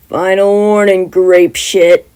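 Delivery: loud, harsh warning; angry threat. Acted. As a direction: bark the threat at him. Bakugo threatens Mineta.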